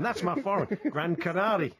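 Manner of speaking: gentle parody of a co-host's catchphrase; imitating Alan Brazil. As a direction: tease the pundit by repeating his line. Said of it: "that's how they say it over there".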